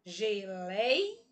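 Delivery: "Geleia" split up, LEI held long; teacher sounding out "Geleia" in slow pieces; syllable by syllable. Shown as a demonstration. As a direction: stretch out the stressed middle of "Geleia". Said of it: "A sílaba tônica da palavra geleia é o lei".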